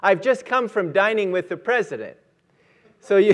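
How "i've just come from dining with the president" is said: lightly acted sarcastic brush-off; retold sarcasm. Homeless man rebuffing the lady's offer, mildly sarcastic. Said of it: "he sarcastically says".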